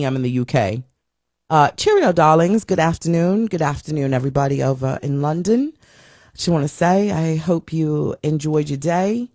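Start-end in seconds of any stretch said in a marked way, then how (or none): 1.5-3.5 cheery put-on London accent, a bit overdone; mock London accent. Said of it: "My London accent is horrible". 3.5-5.7 lightly put-on London accent, greeting the viewers; a playful try at a London accent; mock London accent. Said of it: "My London accent is horrible". 6.4-9.3 slow, put-on London accent with rising ends; drawn-out London accent, wishing them well; mock London accent. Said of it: "My London accent is horrible".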